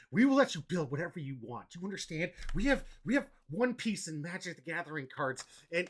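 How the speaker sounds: hammed-up rant to a viewer; rant mode. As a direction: lay it on thick for the viewer. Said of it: "Rant mode".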